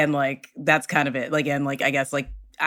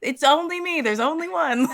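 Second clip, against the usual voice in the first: high sing-song princess; 10 semitones higher than usual. Retold or imitated. Princess covering to kids.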